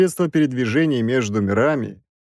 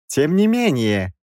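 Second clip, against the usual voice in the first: raised-voice professor insisting; stubborn; 5 semitones higher than usual. A narrator's reading. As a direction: dig in with a high-pitched objection. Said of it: "продолжал упорствовать Краевский".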